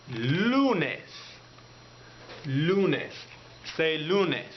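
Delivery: "lunes" said LOO-nes, clear Spanish vowels; Spanish word. Shown as a demonstration. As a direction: model "lunes" slowly for learners to repeat. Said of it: "to say Monday in Spanish, you say".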